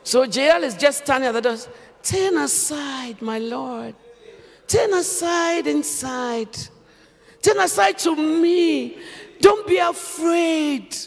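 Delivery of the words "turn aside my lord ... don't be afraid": assuring, inviting. Acted. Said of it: "Assuring words".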